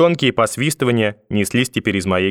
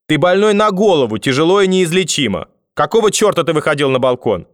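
put-on high, louder, indignant old-woman role; scolding grandmother, exasperated; 7 semitones higher, 4 dB louder than usual. A narrator's reading. Grandmother demanding why he went on the balcony, angry scolding. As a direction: lay into the child with raised pitch.

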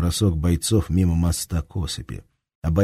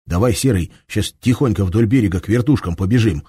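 tense, pressed urging; barely holding back; 3 semitones higher, 4 dB louder than usual. Acted. Shams urges Seryoga to run, barely holding back. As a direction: fear pushing under the words. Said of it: "еле сдерживаясь".

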